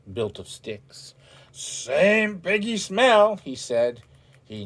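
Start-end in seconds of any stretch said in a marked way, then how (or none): 1.5-3.4 wolf sniffing. A narrator's reading.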